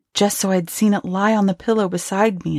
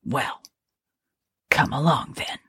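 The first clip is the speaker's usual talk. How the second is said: hard; 3 semitones lower, 4 dB quieter than usual. A narrator's reading. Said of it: "a voice only a shade less hard".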